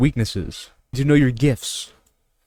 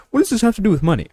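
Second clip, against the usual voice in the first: much higher, incredulous mock question; skeptical viewer; 10 semitones higher, 3 dB louder, faster than usual. Imitating doubtful viewers asking about money, high and incredulous. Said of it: "some of you might be like".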